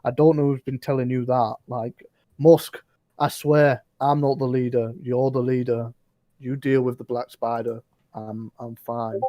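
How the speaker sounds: lightly voiced bugbear protesting loudly; nervous bugbear denial. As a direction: pass the buck in a hurry, protesting. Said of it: "bugbear sort of looks at him and goes".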